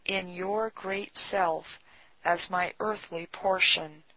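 softly read, reverent prayer; hushed devotional reading with measured pauses. A narrator's reading. A believer giving himself up to the Lord, praying softly. Reads a written prayer aloud.

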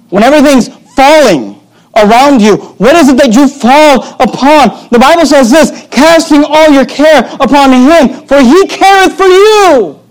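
slow, high preaching climbing to a peak; impassioned preaching, building. Real, not acted. Pastor urging congregation to cast cares on God, climactic preaching. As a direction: build steadily to a high, drawn-out final phrase.

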